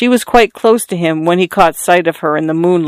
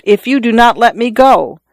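crying out; 5 semitones higher than usual. Acted. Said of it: "he cried out".

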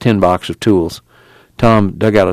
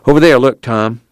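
excited call; 3 semitones higher, 4 dB louder than usual. Acted. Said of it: "Al cried".

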